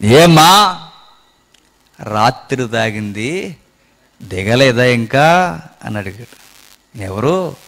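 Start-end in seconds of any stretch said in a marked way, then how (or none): 0.1-5.6 mocking old pastor. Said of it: "మన లాంగ్వేజ్లో చెప్తున్నాను".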